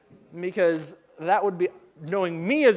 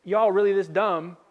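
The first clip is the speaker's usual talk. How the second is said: southern-tinged exasperated question; southern accent. Retold or imitated. Jesus to his dense disciples, in a southern accent. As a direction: ask it with a southern twang. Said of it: "I think Jesus had a southern accent".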